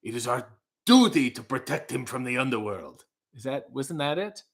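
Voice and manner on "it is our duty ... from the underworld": stagey, put-on solemn declaiming; self-impression. Vlogger mimicking own Egyptian performance, solemn declaiming. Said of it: "That's my impression of me".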